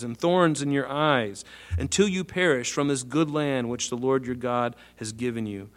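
measured Bible reading, slowing near the end; scripture reading. Acted. Preacher reading scripture to the congregation, measured and steady. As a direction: read the verses out to the congregation.

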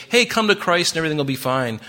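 imitating a carefree invitation; mock breezy. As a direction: toss it off like an easy sales pitch. Voices a glib, easy gospel pitch.

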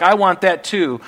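a hint of a grasping voice; mild mock covetous claim; greedy wanting. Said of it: "and like".

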